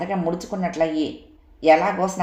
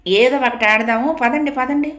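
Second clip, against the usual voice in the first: eager, higher and louder call to get going; urging everyone on; 6 semitones higher, 4 dB louder than usual. A narrator's reading. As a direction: hurry the other girls along. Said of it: "అదిలించింది అందరినీ".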